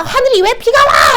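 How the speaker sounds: high-pitched, loud mock rage; mock angry outburst. Teacher mimicking someone raging at the rain, hammed-up anger. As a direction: rail at the sky in hammed-up anger. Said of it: "하면서 막 화내는 거죠".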